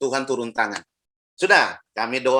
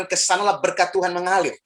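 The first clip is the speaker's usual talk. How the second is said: ordinary delivery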